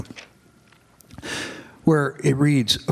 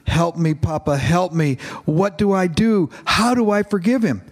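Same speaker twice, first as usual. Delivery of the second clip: pleading; 4 semitones higher than usual. Acted. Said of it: "he pleaded".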